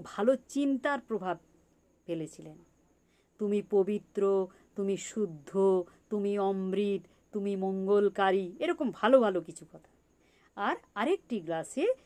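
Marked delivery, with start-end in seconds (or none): 3.4-8.5 slow, even monotone blessing; measured, chant-like affirmations on a steady pitch; good-words affirmation. Retold or imitated. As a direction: intone each short phrase evenly, drawing out the praise. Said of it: "তিনি ভালো ভালো কথা বলেছিলেন".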